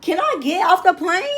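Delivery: half-laughing plea to get back on the plane; panicked laugh. Retold or imitated. New recruit jokingly panics as drill instructors start yelling, laughing. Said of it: "I was like".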